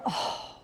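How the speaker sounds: breath-only "oh"; soft, voiceless exhale of wonder; acted blissful sigh. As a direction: sigh out an awed "oh". Imitates awe at top moment.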